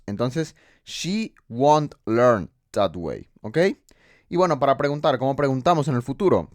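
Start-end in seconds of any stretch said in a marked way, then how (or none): 0.8-3.3 won't said slowly as one word, she won't learn that way; teacher models the spoken won't for Spanish learners; slow contracted form. Shown as a demonstration. Slowly model the contraction won't. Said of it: "lo abrevian y dicen won't".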